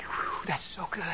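hushed, voiceless whisper of wonder; whispered awe. Retold or imitated. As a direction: breathe it out in awe. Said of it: "I got real quiet".

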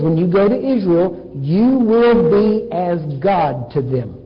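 slow, weighty second half; God's declaration. Acted. God tells Moses his role before Israel, slow declaration. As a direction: declare it solemnly, stretching the words out.

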